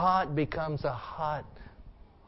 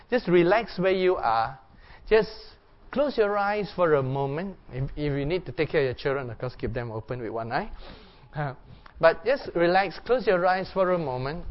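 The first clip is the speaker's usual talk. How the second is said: guided meditation. Acted. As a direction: gently settle the room into prayer. Leads the congregation in quiet reflection.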